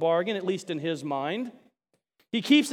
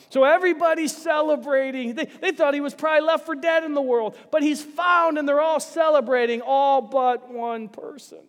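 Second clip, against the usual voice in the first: joyful preaching; 7 semitones higher, 4 dB louder than usual. Real, not acted. Preacher building to joyful climax.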